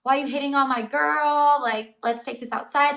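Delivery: loud, hammed-up challenge to a bro; picking a fight. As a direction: imitate a guy squaring up for a fight. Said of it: "he was trying to fight him".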